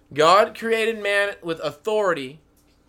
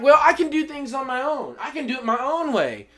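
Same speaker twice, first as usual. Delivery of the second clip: mock defiance; 6 semitones higher, 5 dB louder than usual. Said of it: "They were like".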